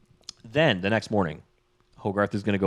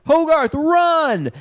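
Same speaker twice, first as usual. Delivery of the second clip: high, loud, drawn-out mock yell; shouted warning; 6 dB louder, much slower than usual. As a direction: yell a slow, stretched warning. Dean shouting a warning to flee.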